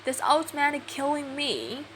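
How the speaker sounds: loud, high panicked yells for help; cry for help. Acted. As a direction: scream for help from the ground. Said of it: "He shouted".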